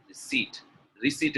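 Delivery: RECEIPT with a silent p; correct pronunciation. Shown as a demonstration. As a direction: say RECEIPT as "ri-SEET". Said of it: "is the correct one".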